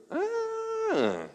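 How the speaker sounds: a high, soft, surprised ah of memory; the cupbearer recalls José with a startled ah; sudden remembering ah. Acted. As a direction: jolt as it comes back to him.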